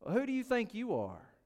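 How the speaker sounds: a sneering challenge to his claim; snide, contemptuous. Shown as a demonstration. Preacher showing the Pharisees' retort, snide and contemptuous. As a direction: scoff the question at him. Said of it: "in a very snide, contemptuous sort of way".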